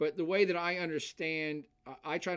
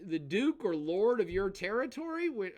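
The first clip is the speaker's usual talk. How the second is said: ordinary talk, nothing marked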